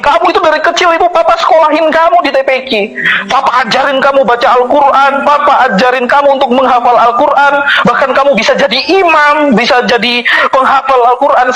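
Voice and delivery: retold father scolding, high and fast. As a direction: rattle off a father's angry rebuke, quick and high. Father scolding his son.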